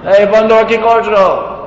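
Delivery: a guru teasing a monkey, lightly acted Bengali call; mock Bengali call to monkey. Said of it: "He wasn't speaking to the monkey in Bengali".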